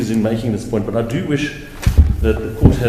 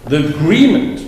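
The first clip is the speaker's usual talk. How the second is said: "agreement" set apart, a touch louder; emphasized word; 3 semitones higher, 5 dB louder than usual. Real, not acted. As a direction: lean on "agreement" so the court hears it. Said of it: "and I emphasize agreement".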